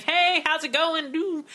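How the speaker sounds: high, drawn-out polite cheer; lightly acted friendly greeting. Passer-by greeting nursing home residents, mock-friendly. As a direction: humour the residents a little.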